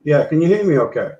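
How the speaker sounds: audio cutting out on a bad connection; choppy, dropping internet voice; breaking up. Real, not acted. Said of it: "cutting out a bit".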